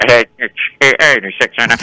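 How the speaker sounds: imitated police radio chatter; walkie-talkie imitation. Cops at a stabbing, mimicked walkie-talkie squawk. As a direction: crackle like a cop's radio. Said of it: "The walkie-talkies".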